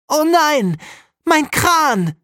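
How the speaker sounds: high, loud wail over a broken toy; dismayed scream. Acted. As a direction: cry out as the toy snaps. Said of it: "schreit Jakob".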